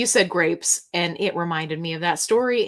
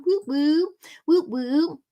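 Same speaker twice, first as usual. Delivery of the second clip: cheering whoop; 6 semitones higher, slower than usual. Real, not acted. Cheering for a viewer.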